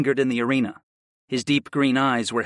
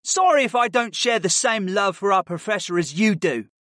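eye-rolling sarcasm; 6 semitones higher than usual. A narrator's reading. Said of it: "with a roll of his eyes".

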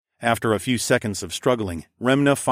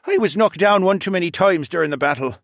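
put-on higher-pitched old fox-man voice; aching old father; 8 semitones higher, 4 dB louder than usual. A narrator's reading. Father admits his injury to son, old man's voice. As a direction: admit it like a sore old dad. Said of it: "the fox demi-human admitted".

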